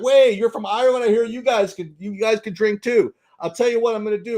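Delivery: a hammed-up bartender daring the Irishman; Texas bartender. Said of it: "the Texas guy and the bartender's like".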